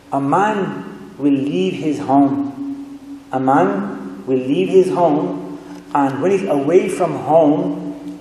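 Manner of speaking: slow, measured recitation in English; weighty, unhurried preaching; solemn hadith quotation. Real, not acted. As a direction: deliver it phrase by phrase, deliberately. Quotes hadith slowly and deliberately.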